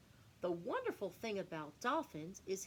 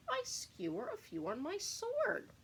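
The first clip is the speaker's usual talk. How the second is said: gleeful swordfish; 13 semitones higher, 3 dB louder than usual. Acted. Swordfish boasts in rhyme.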